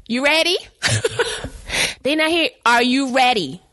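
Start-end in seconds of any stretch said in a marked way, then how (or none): 0.1-0.6 light, high questioning lilt on ready; sweetly mocking. Woman prodding the ex to leave, lightly rising. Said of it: "Eight o'clock came". 2.6-3.6 ready dropped flat and final, a little louder; firmer demand. Retold or imitated. Woman insisting the ex leave now, firmly falling. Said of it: "'Cause I'm locking up my house".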